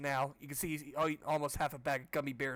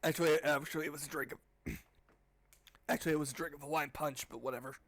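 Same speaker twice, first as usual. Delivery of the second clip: hoarse voice. Real, not acted. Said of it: "that kinda made my voice feel worse".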